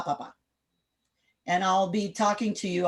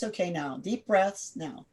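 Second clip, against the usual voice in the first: soothing parent; 2 semitones lower, 3 dB quieter than usual. Shown as a demonstration. Calming a screaming child.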